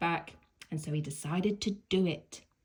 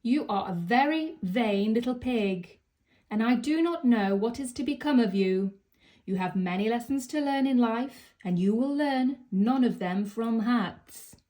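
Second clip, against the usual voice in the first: scolding mum; 4 semitones higher, 5 dB louder than usual. Acted. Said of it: "she would say".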